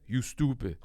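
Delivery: put-on dismissive put-down, lightly Turkish-accented. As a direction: imitate a Turkish dad, unimpressed. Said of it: "In his Tur-, deep Turkish accent".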